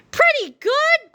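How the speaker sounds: put-on high, slow, offended old-man cry; indignant old man. A narrator's reading. Old Harold offended at the kids' verdict, cranky high cry. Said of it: "cried old Harold".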